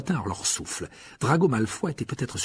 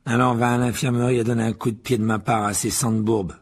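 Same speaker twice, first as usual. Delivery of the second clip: sneering; 5 dB louder than usual. Acted. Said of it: "ricana Malfoy".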